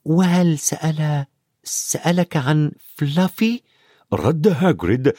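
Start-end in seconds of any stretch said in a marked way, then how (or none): 0.0-3.6 put-on slow, carefully controlled boy's question; hesitant, drawn-out attempt at calm; trying to sound calm. A narrator's reading. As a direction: hold the voice steady while asking. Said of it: "يحاول أن يبقي صوته هادئا".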